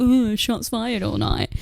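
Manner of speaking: drawn-out, soft mock 'ooh'; mock boyfriend catchphrase. Friend imitating an annoying boyfriend's catchphrase, slow mocking croon. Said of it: "he's just gonna go".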